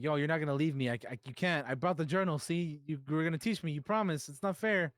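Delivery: put-on young student's mild protest; retold pleading. Student begging her teacher not to leave, pleading.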